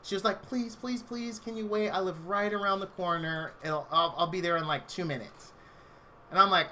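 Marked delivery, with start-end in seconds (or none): 0.4-5.5 mock sexy voice. Caller on the phone begging the clerk to stay open, softly. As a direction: imitate a sultry caller begging him to wait. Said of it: "she had world's sexiest voice".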